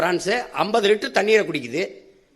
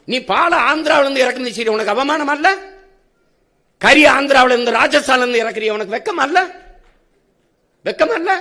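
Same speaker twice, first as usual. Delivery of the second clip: higher-pitched, rhetorical shaming; indignant scolding; 5 semitones higher than usual. Acted. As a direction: scold them in a raised pitch, climbing on the last question. Scolding an imagined addressee for shamelessness. (உயர்ந்த குரலில் கண்டிக்கும் தொனி)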